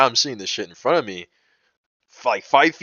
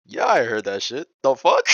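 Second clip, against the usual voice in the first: stunned retort; 4 semitones higher, 4 dB louder than usual. Retold or imitated. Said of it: "I was fucking stunned hearing that".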